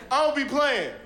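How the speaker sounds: high, laughing retort; bride's reply. Acted. Bride snapping back at her ex, high and laughing. Bride answers in acted scene.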